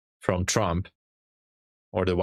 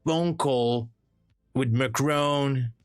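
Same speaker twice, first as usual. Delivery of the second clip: higher, boastful Trump voice rambling about beautiful boats; hammed-up Trump bragging, pitched up; streamer's comedy sketch as Trump, higher and boastful; Trump impersonation; 4 semitones higher than usual. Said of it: "I did a great Trump, Trump impersonation".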